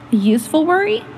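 a loud, bright announcing voice; calling out. Acted. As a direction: announce it loudly like a quiz host.

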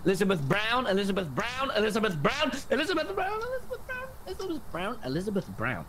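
whisper-chant the name as the meter rises; hushed summoning. Acted. Chanting name, detector rising.

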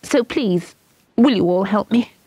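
put-on high, eager pleading girl; begging. A narrator's reading. Ina to her friends, begging them for help, high. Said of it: "she begged".

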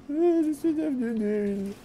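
high, slow laughing confession; laughing admission. Pretend. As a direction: give in with a laugh, drawn out. Laughing self-mocking admission. (aveu ralenti en riant)

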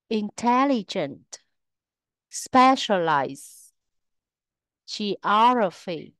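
inTELligent, SPEcialized, geOGraphy, with those syllables stressed; third-from-last syllable stress. Shown as a demonstration. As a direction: stress TEL, SPE and OG in a careful word list. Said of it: "trọng âm thường rơi vào âm tiết thứ ba".

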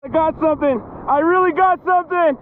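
rising excitement as the fish bites; excited. Real, not acted. Angler to viewers as a fish bites, getting excited. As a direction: voice climbing up with the catch.

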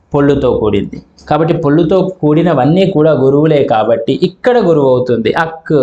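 ordinary talk

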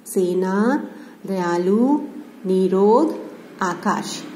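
slow, rising list reading; review recitation. Acted. Teacher reading the revision list to students, clear and slow. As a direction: read each word out clearly for the class.

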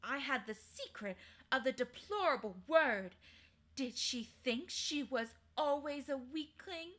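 a queen's haughty, lofty tone; proud evil queen. Acted. Queen to Diggory, lightly voiced haughty queen. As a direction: voice the cold queen, proud and grand. Queen tells her secret.

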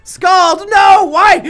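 shouting. Real, not acted. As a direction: scream in disbelief. Pokemon gets countered, yells.

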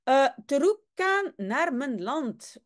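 terukan with a hard k for the g, lightly Spanish; Spanish-accented Dutch. Acted. Teacher reads the general's broken Dutch with a Spanish accent. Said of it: "Et les U par OU".

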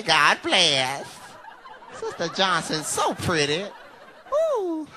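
overly sweet church grandma; fake sweet church lady. Grandma flattering Sister Johnson.

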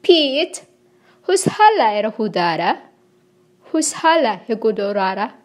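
asks "hushala e gudorara?" fast, rising like a question; rapid invented-tongue question; heavenly language question. Shown as a demonstration. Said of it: "You know, it's a question".

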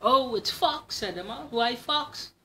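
a tiny creature's cheery hello; mouse voice. Acted. Mouse greets Owl, high and chirpy.

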